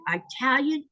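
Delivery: "Italian" said as eye-TAL-yun; Southern eye-talian for "Italian"; mispronounced Italian. Retold or imitated. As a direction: open "Italian" with a long EYE. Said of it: "you cannot say that that way".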